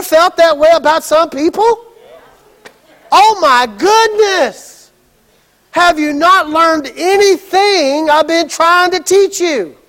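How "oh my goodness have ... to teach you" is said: higher, slow exasperated sigh of a teacher; fed up with slow learners. Retold or imitated. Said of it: "That's what Jesus is saying".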